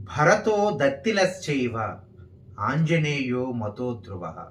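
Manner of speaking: slow, measured Sanskrit shloka; verse recitation. Shown as a demonstration. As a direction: recite the verse deliberately, drawing out syllables.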